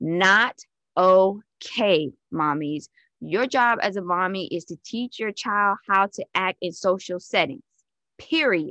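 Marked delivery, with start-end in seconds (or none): 0.0-2.9 loud, emphatic voice projected to the back row. Repeating a point to mommies, said real loud for the people in back. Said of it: "I'm gonna say it real loud for the people in the back".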